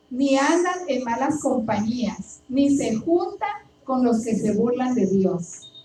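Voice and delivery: slow, deliberate scripture read; solemn paced recitation; psalm reading. Acted. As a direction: read each verse slowly to the flock. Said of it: "Salmo uno parafraseado y dice así".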